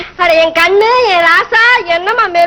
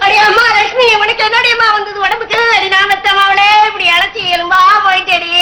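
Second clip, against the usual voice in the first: mock lament. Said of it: "இப்படி ஒப்பாரி வைக்கிற".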